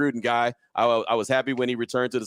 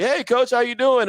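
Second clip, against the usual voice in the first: high, eager fan hello, a bit slow; overeager, corny hello to the coach; corny excited greeting; 11 semitones higher, 4 dB louder than usual. Retold or imitated. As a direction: gush it like a starstruck fan. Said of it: "he probably thought I was corny".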